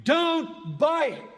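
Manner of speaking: slow, pleading appeal; slow heartfelt plea; earnest plea. Real, not acted. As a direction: beg them not to buy it. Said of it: "to plead with you".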